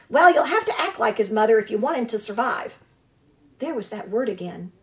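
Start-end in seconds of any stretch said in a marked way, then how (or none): 0.1-2.8 put-on squawking old goose. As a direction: scold like an indignant old goose. Goose advises the robot.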